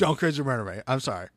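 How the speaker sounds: meek mock plea. Podcaster begging Gone Girl for mercy, quiet mock plea. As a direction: drop it down to a small mock apology.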